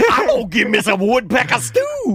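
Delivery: vintage cartoon voice. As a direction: belt it like an old cartoon character. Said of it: "talking like a cartoon".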